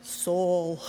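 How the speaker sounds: lightly theatrical, dropping low on the repeated "Soul"; playful stage delivery with a low, weighty last word; theatrical line. Acted. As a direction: savour the line, pause, then a low "Soul". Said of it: "It's theatrical, that lovely little line".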